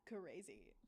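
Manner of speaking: whispered, amused. Real, not acted. Streamer whispering to herself after laughing at her mistake. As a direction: breathe it under a laugh.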